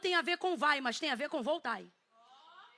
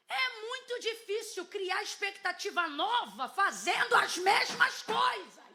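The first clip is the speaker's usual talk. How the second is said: slow, rising to a loud high shout; building preaching shout; 5 semitones higher, 4 dB louder, slower than usual. Real, not acted. Preacher on doing the same things, building to a shout. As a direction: build and stretch to a shouted finish.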